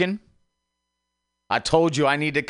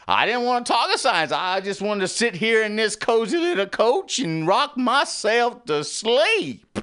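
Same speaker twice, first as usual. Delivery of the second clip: put-on much higher, whining like a child; high whiny voice; 9 semitones higher than usual. Repeated complaint, in a high childish whine. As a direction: whine it up high, self-pitying.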